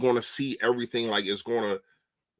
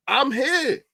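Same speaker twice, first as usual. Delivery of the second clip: ordinary talk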